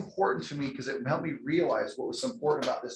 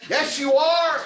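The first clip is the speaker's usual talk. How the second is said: bright laughing yes; laughing agreement; 11 semitones higher, 6 dB louder, slower than usual. Real, not acted. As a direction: laugh it out to the crowd. Laughing reply to audience member.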